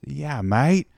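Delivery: lightly attempted Australian accent; breezy yes with an Aussie twang. Aussie biker agreeing to lend a helmet, light Australian accent. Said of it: "sorry if this accent isn't working out".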